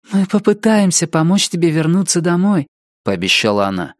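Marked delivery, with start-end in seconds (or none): 0.1-2.7 put-on higher earnest girl voice; Door's voice. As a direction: promise it like a young girl. Door promises Richard.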